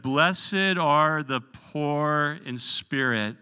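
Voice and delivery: slow, solemn sermon line; Jesus preaching. Retold or imitated. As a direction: lay out each word slowly like a preacher. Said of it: "this is what it sounded like".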